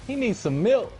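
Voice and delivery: very high-pitched mock cry; meme imitation. Gamer quoting a viral video to his friend, high mock cry. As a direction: squeal it in a put-on high voice.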